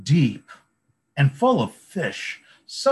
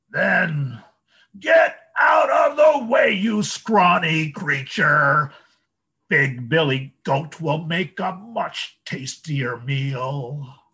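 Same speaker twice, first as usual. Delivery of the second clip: very high, loud troll shout; 5 semitones higher, 5 dB louder, slower than usual. A narrator's reading. Troll shouts at the scrawny second goat, high and loud. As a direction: drive the goat off like a greedy troll.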